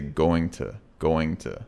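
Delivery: "going to" said slowly and fully; full going to. Shown as a demonstration. Teacher drilling full "going to" for students. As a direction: drill "going to" twice, unreduced. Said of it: "very important to know".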